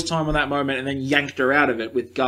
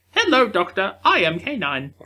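robot dog voice; 3 semitones higher, 3 dB quieter than usual. Retold or imitated. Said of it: "No, it's like".

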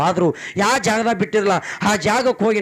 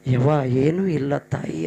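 choked son; 5 semitones lower, slower than usual. A narrator's reading. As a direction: say it through a tight throat. Son weeping before mother. (ಅಳು ನುಂಗಿದ ಮಗನ ಧ್ವನಿ)

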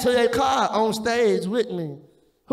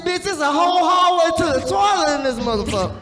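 retold exasperation; 6 semitones higher, faster than usual. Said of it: "I said".

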